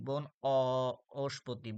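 বন, a held অ, then অস্পতি; syllable breakdown. Shown as a demonstration. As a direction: break the word at বন and lean on the "o" of অস্পতি. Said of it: "অর মতো উচ্চারণ আছে". (বন অ- অস্পতি, অ আলাদা করে)

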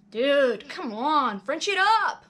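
excited urging. Acted. Joey urging in scene.

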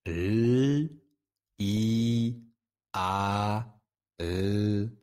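L, I, A, R as sustained phonemes, not letter names; son des lettres. Shown as a demonstration. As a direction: hold each sound of L, I, A, R, pausing between. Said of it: "lire le son des lettres et pas le nom". (chaque lettre lue par son son prolongé)

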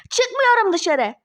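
drawn-out, slow defiant cry; angry defiance. Acted. Ex-wife refuses to go outside, angrily defiant. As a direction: refuse hotly, stretching the words.

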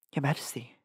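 soft whispered address; whispering. Acted. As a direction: hush it, lean in close. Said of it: "she whispered".

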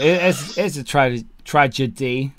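stumbling over words with loose dentures. Real, not acted. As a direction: talk like your false teeth are out. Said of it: "Can't say that word. Put my teeth in".

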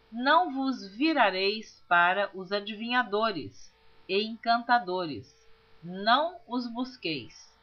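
slow, measured Bible reading with deliberate pauses; solemn scripture reading. Acted. Narrator reading Leviticus aloud to listeners, solemn and measured. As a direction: read each verse out deliberately.

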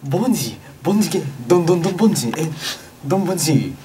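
fake Ugandan language. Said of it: "それっぽいウガンダ語で".

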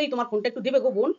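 mildly sugary pleading with a rise on দেবে; imitating a neighbour sweet-talking for a phone; sweet coaxing. Neighbour coaxing me for the phone, in a mock sugary plea. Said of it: "বোন সোনা মোনা ডেকে অস্থির করে দিচ্ছে".

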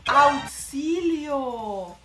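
stretched-out crying "¡Auxilio!"; a hammed-up wail for help; mock wail. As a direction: drag the cry for help out very slowly, half-crying. Wailing at bleached hair loss.

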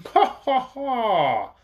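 a stranger laughing approvingly; booming spoken laugh. A narrator's reading. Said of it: "laughed someone ... in a big voice".

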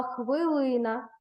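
«хвилина» said slowly, each sound drawn out; drawn out for sound analysis. Shown as a demonstration. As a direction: stretch «хвилина» out so every sound is heard. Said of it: "зробимо його звукобуквений аналіз". (повільно, по звуках: «хвилина»)

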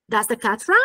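DOES THE short, running into CAT RUN; connected articulation. Shown as a demonstration. Teacher repeating the question to show articulation, connected speech. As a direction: say "Does the cat run" as one linked, rising phrase. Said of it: "ci faremo anche un lavoro articolatorio".

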